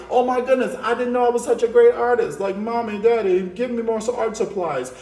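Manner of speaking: loud, gushing mock student voice; lightly voiced excited child; mock amazed kid. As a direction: play the thrilled kid begging for art supplies. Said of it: "Y'all like".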